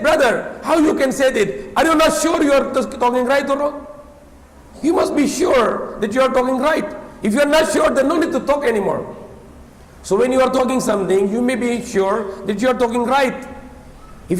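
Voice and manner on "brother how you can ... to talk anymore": raised, incredulous challenge to a preacher; half-laughing rebuke of the brother; indignant retort. Retold or imitated. Retelling his protest to the khutbah preacher, raised and incredulous. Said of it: "I said".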